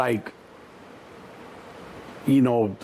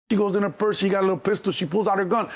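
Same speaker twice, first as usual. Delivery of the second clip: ordinary talk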